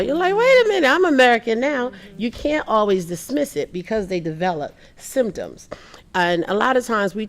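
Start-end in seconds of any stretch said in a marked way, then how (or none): 0.3-1.9 high, louder indignant surprise; child's high, louder wait-a-minute objection; indignant protest. Retold or imitated. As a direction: protest that you belong here now.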